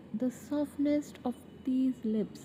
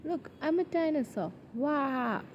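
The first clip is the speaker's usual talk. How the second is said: playful dinosaur act; 3 semitones higher than usual. Acted. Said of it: "Tries to act like a dinosaur".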